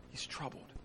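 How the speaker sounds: breathy whisper; whispered sorrow. Acted. Hushed repetition.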